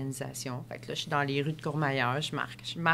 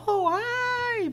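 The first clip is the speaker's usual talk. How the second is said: casual hi. Retold or imitated. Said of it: "Il fait".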